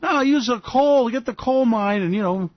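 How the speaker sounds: hammed-up Trump bluster; imitating Donald. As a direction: brush it off bossily. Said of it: "Donald go".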